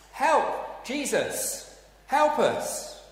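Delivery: high, loud panicky shouts; panicked cry for help. Acted. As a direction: yell for rescue as the boat sinks. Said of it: "because they were at a place of panic".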